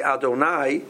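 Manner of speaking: "Adonai" ending in open "eye", "ah-doh-NAI"; patach ending. Shown as a demonstration. Rabbi showing the form meaning our master, patach ending. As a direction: end "Adonai" on an ah-based glide, not oy. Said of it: "with a patach under it".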